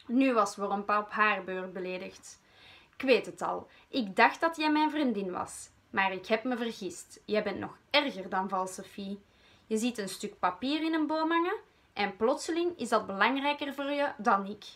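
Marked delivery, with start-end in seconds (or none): 3.0-14.6 a touch of a shaky, hurt voice, pitched up; trembling voice. Acted. Wormpa hurt by her friend, a touch of trembling voice. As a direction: hold back tears, voice wavering. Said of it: "zei ze met een trillende stem".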